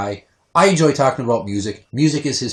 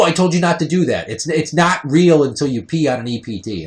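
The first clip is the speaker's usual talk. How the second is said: retold exasperation; 4 semitones higher, 5 dB louder than usual. Retold scolding girlfriend.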